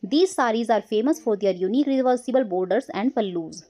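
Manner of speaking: slow, careful textbook reading; teacher narrating an English passage, slow and clear; reading a passage aloud. Acted. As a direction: read it out slowly for the class.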